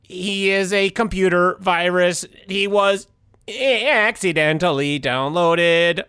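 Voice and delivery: robot voice. Acted. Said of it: "Robot Tim".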